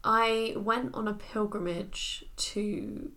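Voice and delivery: slow, earnest contestant voice; poised pageant answer. Pretend. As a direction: answer like a serene pageant hopeful. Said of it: "Do your pageant answer".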